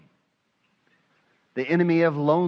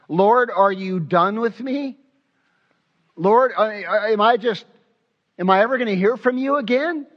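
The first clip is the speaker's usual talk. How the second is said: higher and louder, pleading; anguished cry; 5 semitones higher, 4 dB louder than usual. Retold or imitated. Psalmist crying out to silent God, higher and louder.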